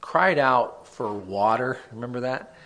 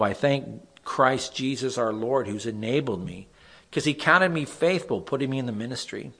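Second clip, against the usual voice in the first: scripture reading. Acted. Pastor reads Psalm fifty-seven to the group, solemn reading. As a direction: read the verse out like a prayer.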